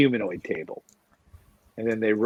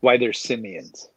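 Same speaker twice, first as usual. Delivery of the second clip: slower, deliberate repeat; clarifying repeat; slower than usual. Real, not acted. Co-host repeating for a puzzled listener, slow and clear. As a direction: say it slowly so it lands. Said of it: "Uh, justify what?".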